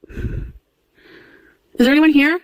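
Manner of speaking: very slow, drawn-out question; slow eerie call. Acted. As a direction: stretch each word out into the dark. Asking spirits in the dark.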